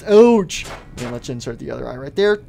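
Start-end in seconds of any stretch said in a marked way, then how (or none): 0.1-0.7 loud, high ouch; pained yelp. Acted. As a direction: yelp at a sudden jab. Eye being inserted.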